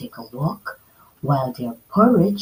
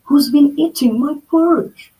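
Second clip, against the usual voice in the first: a hint of a big gruff bear, louder; lightly voiced Papa Bear; 9 semitones higher, 5 dB louder than usual. Papa Bear to his family, finding spoons in porridge, louder. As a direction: ask like a suspicious father bear. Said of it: "asked Papa Bear".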